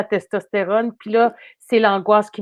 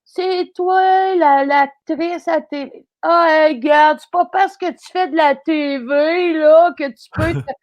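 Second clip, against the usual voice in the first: mock angry driver; 5 semitones higher, slower than usual. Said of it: "il fait".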